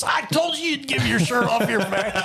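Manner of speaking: very high, laughing exclamation; imitated teasing son. Son teasing his dad over the shirt, laughing. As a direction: mimic his gleeful I-told-you-so, breaking into laughter.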